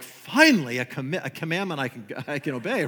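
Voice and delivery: a touch of sarcastic relief; lightly voiced cheeky churchgoer; mock relief. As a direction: play the listener glad for an easy rule. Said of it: "Some of you are like".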